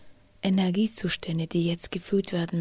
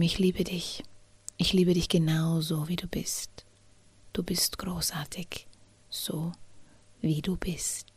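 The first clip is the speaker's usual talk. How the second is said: loving reassurance. Pretend. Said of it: "Und sag ihm".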